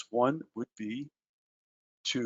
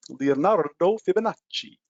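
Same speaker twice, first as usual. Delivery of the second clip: a light mock Italian accent on the name, a touch higher and louder; 4 semitones higher, 3 dB louder than usual. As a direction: roll out Leonardo Fibonacci in a joking, half-hearted Italian accent. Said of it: "that's my best Italian accent".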